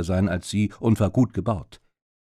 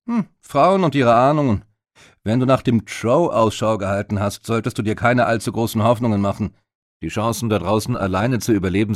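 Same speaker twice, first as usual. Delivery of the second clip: a lightly voiced, louder, dismissive warrior; gruff warrior Ragnar; 4 dB louder than usual. Ragnar warns Lucy about the Trow, a lightly voiced, dismissive warrior. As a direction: brush off her hunch like a seasoned fighter.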